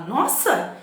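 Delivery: high, loud Nossa; an amazed Nossa; amazed exclamation. Shown as a demonstration. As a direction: cry out Nossa in wonder. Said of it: "a gente fala".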